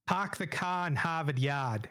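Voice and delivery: slow Boston accent, r's dropped: "Pahk the cah in Hahvahd Yahd". Shown as a demonstration. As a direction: drawl out "Park the car in Harvard Yard" with no r's, Boston style. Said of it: "feed me a Boston accent real quick".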